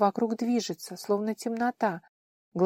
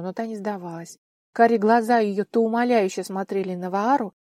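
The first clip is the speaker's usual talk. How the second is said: ordinary delivery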